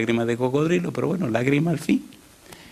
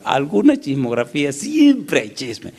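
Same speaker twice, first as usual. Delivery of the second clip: mock gossip drawl; 3 semitones higher, 4 dB louder, slower than usual. Preacher mocking gossip.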